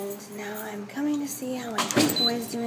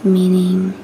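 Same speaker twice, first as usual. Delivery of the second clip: whispering; 7 dB louder than usual. Real, not acted. Whispers to camera throughout.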